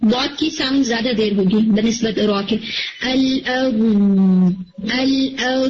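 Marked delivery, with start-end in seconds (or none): 3.0-5.6 "ال، ا" with a long, held dad sound; a long, steady "ال، ا" with no air or bounce; sustained dad. Shown as a demonstration. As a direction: hold the dad longer than the ra. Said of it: "it should be like ال".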